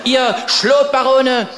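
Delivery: hammed-up rabble-rousing rant out the window, building to a shout; mock furious proclamation to the politicians; grim shouted tirade. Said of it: "rief hinaus ... mit Grimm in der Stimme". (gespielt grimmige Brandrede, zum Schreien anschwellend)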